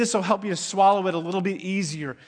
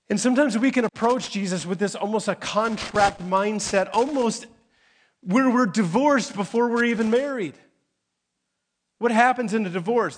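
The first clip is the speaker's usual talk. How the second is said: rising emphatic preaching; 6 semitones higher, 4 dB louder than usual. Real, not acted. Preacher builds to climax.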